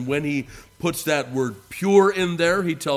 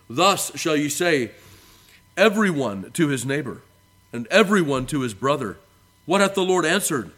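emphatic pulpit reading, measured phrases; Scripture reading; 3 semitones higher, 4 dB louder than usual. Acted. Preacher reading Jeremiah to the congregation, emphatic Scripture reading. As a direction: read it out in proclaiming cadence.

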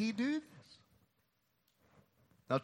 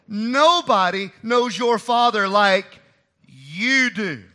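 flattering Hushai; 5 dB louder than usual. Retold or imitated. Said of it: "through flattery of language, Hushai is communicating".

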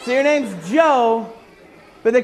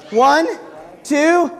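excited shout; 3 semitones higher, slower than usual. Real, not acted. Leading scream game countdown.

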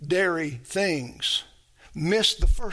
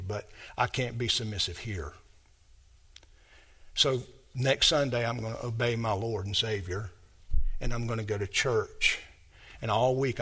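kind voice; 7 semitones lower, 6 dB quieter than usual. Pretend. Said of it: "in a very kind voice".

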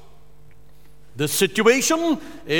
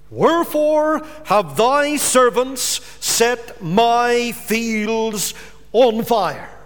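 mock King James demand; slower than usual. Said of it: "he demands".

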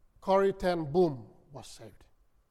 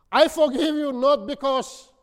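higher and louder, ringing out; loud preacher's declaration of forgiveness; 7 semitones higher, 7 dB louder than usual. Retold or imitated. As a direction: proclaim it to the whole room. Preacher repeats the forgiveness aloud.

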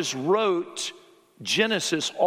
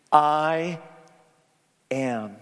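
"I" held long and firm, then a pause; weighty, separated "I ... am"; emphatic I. Retold or imitated. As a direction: hit "I", wait, then drop onto "am". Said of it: "this is very emphatic".

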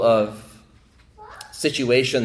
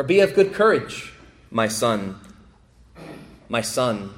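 intimate encouragement. Acted. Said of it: "in very intimate language".

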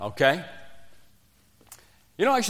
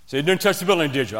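coach accusing; 4 semitones higher, 3 dB louder, faster than usual. Retold or imitated. Coach confronting again.

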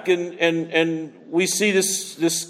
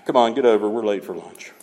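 bored yawn; 6 semitones lower, faster than usual. Retold or imitated. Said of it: "some churches would probably yawn".

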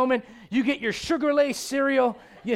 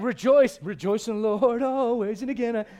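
mock pious Paul. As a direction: draw out the rejoicing like a saintly preacher. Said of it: "he's like".

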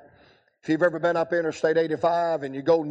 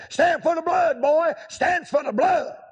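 put-on old preacher; 12 semitones higher than usual. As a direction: boom it like an old-time evangelist. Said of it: "He said".

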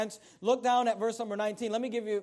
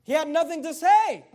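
preaching emphasis; 4 semitones higher, 6 dB louder than usual. Real, not acted. Preaching climax.

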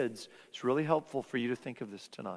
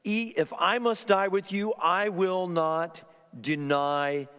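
higher and slow, each word leaned on; emphatic vow; 5 semitones higher, 4 dB louder than usual. Retold or imitated. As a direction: insist slowly, like a firm promise. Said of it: "emphatically there in that second".

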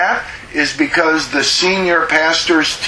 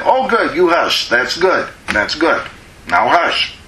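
praising hug. Shown as a demonstration. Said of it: "Then you praise them and hug them".

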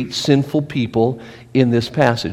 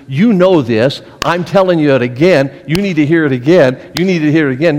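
mock preachy lecture. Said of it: "Preaching sometimes is".

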